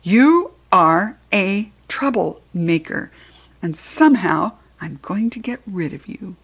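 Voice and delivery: angry teacher threatening the pet; angry threat. Acted. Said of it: "with angry eyes".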